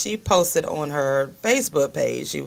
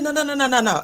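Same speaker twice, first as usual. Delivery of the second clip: laughing no's, higher; laughing denial; 7 semitones higher, much faster than usual. Retold or imitated. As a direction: wave it off with laughter. Laughing no to niece.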